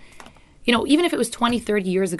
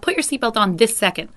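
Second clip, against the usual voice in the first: mild impatient command; 2 semitones higher, 4 dB louder than usual. Shown as a demonstration. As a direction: order it, a touch impatient. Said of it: "coming from a selfish place".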